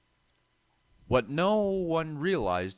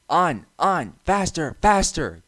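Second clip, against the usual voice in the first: giggling trucks; 6 semitones higher, 5 dB louder, slower than usual. A narrator's reading. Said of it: "giggled the trucks".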